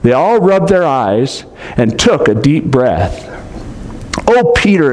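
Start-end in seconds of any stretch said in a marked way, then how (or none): 4.3-4.9 exclaimed. A narrator's reading. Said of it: "exclaimed Lucy".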